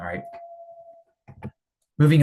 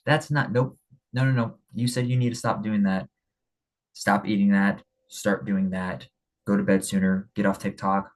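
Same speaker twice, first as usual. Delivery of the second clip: gentler straightforward. Retold or imitated. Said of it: "And I'm like".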